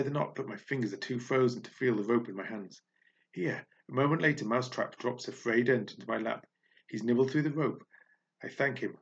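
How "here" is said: high little voice; chirpy little offer; small creature voice. Acted. Mousetrap offering the rope.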